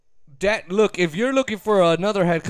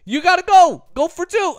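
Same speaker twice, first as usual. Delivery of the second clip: eager assistant; 4 semitones higher, faster than usual. Retold or imitated. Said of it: "these other guys coming up to him".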